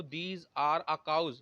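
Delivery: "These are a cows" read out word by word; wrong example, dictated slowly. Shown as a demonstration. Teacher shows students the wrong sentence, very slow. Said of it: "ये आपका गलत हो जाएगा".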